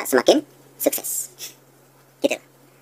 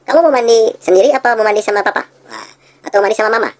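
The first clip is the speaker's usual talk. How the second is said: high, coaxing parent; parent offering choice; 7 semitones higher, 4 dB louder than usual. Retold or imitated. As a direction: give the kid a fake choice. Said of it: "kalau kita mau nyuruh anak mandi".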